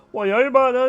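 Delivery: high, loud, garbled Geordie babble; exaggerated Geordie. Imitating Sam chatting to a taxi driver, thick Geordie. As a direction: go full-blown incomprehensible Geordie. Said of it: "very subtle Geordie to, like".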